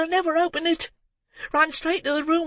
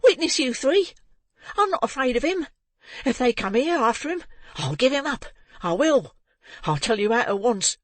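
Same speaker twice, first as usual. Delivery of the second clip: put-on frantic boy shouting; 7 semitones higher than usual. A narrator's reading. Boy calling the men to seize the murderer, frantic high shouts. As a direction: scream for help, rising to a frenzy. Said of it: "becoming more and more excited as he spoke".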